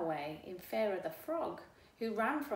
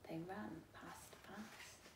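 much softer, trailing off; fading away; 2 semitones lower, 13 dB quieter, slower than usual. A narrator's reading. Narrator tells how the cows flee, fading. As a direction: let it vanish into distance.

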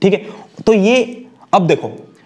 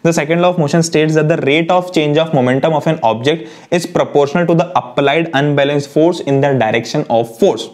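reciting the definition word by word, very slowly; slow law recital; much slower than usual. Acted. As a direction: read it out like a textbook line, slowly. (धीमे-धीमे परिभाषा पढ़ना)

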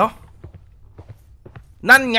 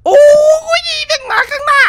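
startled yelp; 5 dB louder than usual. Real, not acted. Monster appears in front.

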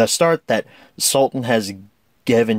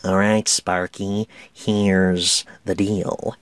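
lightly done Nicholson drawl, slow; a hint of Nicholson, slowed right down; easing into a mild Nicholson sneer; Jack Nicholson; 4 semitones lower, much slower than usual. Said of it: "a Jack Nicholson impression".

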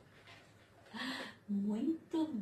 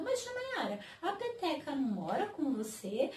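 put-on child's question; 4 semitones higher than usual. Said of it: "você me pergunta".

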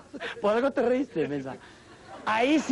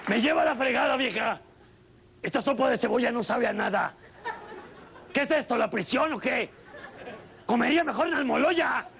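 angry dad; 2 semitones higher than usual. Acted. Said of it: "el papá explota".

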